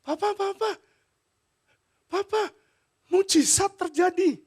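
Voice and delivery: put-on high excited child crying Papa; excited daughter. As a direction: burst in thrilled like a small child. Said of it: "dia bilang gini".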